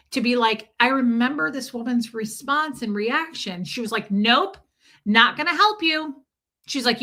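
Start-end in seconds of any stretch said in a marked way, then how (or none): 4.1-6.2 imitating a stern mom, a bit louder and higher; retold mother's firm no; flat refusal. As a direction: brush the kid off coldly. Retelling mom refusing her child.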